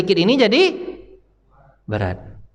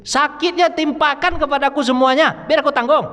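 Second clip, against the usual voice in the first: higher, pleading voice of the Prophet; Prophet's plea; 9 semitones higher than usual. Acted. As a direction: beg to take all the pain on yourself. Prophet pleads to bear pain. (suara memohon yang lebih tinggi)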